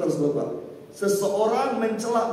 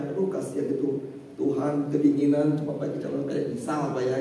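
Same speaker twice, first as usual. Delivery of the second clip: mock pity; 6 semitones lower than usual. Mocking a statue of Jesus, lightly voiced scornful pity. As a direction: mimic a mocker pitying the crucifix. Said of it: "ya, kita cela".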